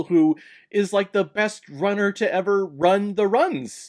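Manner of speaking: normal talking voice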